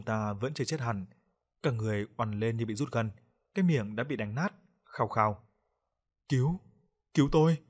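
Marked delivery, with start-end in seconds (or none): 6.3-7.6 choked, rising cry for help, louder; desperate plea. A narrator's reading. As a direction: beg for your life with a broken mouth. Dying man begs for help. (lời cầu cứu thều thào, hoảng loạn)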